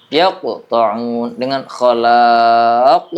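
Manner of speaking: slow, yaqta'un with a light bounce and khalaq with a strong bounce; contrasting qalqalah. Shown as a demonstration. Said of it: "cara bacanya beda". (yaqta'un pantulan ringan, khalaq pantulan kuat, pelan)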